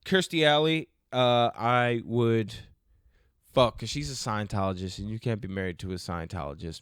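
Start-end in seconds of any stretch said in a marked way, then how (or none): 0.0-3.8 put-on British accent. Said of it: "for this accent".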